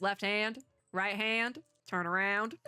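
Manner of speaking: put-on Texas prison officer with a Southern accent. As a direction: give orders in an attempted Southern accent. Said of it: "Trying to do the accent in real time".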